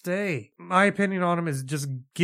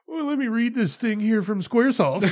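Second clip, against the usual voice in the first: raised, laughing announcer voice; Vince McMahon impression; 6 semitones higher than usual. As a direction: read it like a pompous chairman with a laugh. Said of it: "Vince McMahon doing a podcast".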